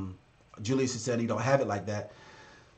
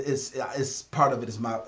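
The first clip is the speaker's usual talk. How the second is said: usual speaking voice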